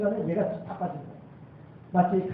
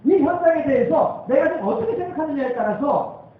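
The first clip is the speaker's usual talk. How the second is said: higher, louder, building sermon cry; full-force preaching; 7 semitones higher, 8 dB louder than usual. Acted. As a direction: drive the point home to the pews.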